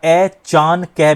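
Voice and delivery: अचानक broken wrongly as "ए चान कह"; wrong split. Shown as a demonstration. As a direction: say it as "ए … चान … कह", slowly. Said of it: "नहीं बोला, बोल सकते". (गलत तोड़कर धीरे "ए चान कह")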